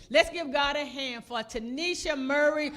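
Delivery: loud announcer-style call; mother announcing her daughter, loud; loud introduction. Real, not acted. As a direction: bring her up with a shout.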